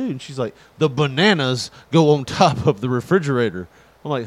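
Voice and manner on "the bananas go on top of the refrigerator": annoyed wife. Retold or imitated. Wife scolding.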